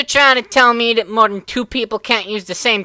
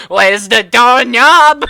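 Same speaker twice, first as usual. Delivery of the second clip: panicked yell; 3 semitones higher, 8 dB louder, slower than usual. Retold or imitated. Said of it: "he's scratching at the window".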